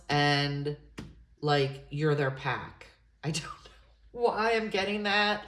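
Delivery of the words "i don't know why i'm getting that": whispers it through a little laugh; a bashful, amused aside under the breath; giggly whisper. Real, not acted. To viewers, half-laughing at her own reading, whispered.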